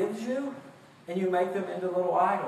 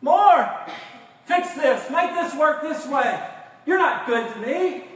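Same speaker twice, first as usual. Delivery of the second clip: whiny shouts at God, louder on More; mock demanding whine; 4 semitones higher, 4 dB louder than usual. Preacher voicing his congregation complaining to God, demanding and shouting. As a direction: voice a spoiled child demanding from God. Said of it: "with the attitude".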